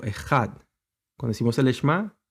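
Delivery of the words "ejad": "Ejad" with a throaty Hebrew j; teacher showing how "Ejad" sounds; Hebrew pronunciation demo. Shown as a demonstration. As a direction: pronounce "Ejad" carefully, leaning on the last syllable. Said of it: "Así se pronuncia en el hebreo".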